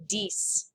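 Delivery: dix as /dis/, soft; French dix. Shown as a demonstration. Teacher revealing the pronunciation of dix. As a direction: say dix like dees. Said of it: "how do you think it's pronounced".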